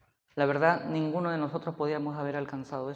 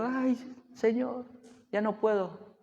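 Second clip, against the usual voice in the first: high, drawn-out, soft wail; mock tearful plea; 6 semitones higher, 4 dB quieter, slower than usual. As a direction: plead as if crying, in a hammed-up way. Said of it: "vas a venir llorando".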